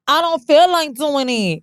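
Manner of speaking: hammed-up Southern caricature, stretching the words; mock Southern stereotype. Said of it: "they normally go to this Southern ghetto".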